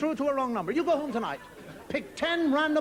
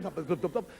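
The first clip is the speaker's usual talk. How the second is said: quick "dup" footfalls, low in pitch; imitated footsteps; 8 semitones lower, 4 dB quieter than usual. The other person walks back to the phone, imitated footsteps. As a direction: mimic footsteps in little thuds. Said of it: "you hear them walk away".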